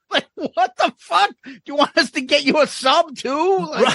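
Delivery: high-pitched incredulous rant; mock outrage. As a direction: pitch it way up in sarcastic disbelief. Mocking the price of autographs.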